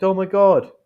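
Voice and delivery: high-pitched, concerned shock. Acted. Friend reacting to bad news, shocked. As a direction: gasp out a mock shocked exclamation. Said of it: "I was shocked".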